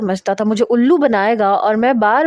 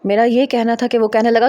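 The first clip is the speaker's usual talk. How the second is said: plain reading voice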